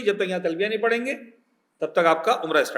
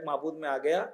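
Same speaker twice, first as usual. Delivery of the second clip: softer, lower, sincere devotion; heartfelt; 4 semitones lower, 9 dB quieter than usual. Shown as a demonstration. Pilgrim telling God he has come, heartfelt and soft. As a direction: say it softly, as if to God. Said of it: "دل سے بول رہے ہو کہ نہیں".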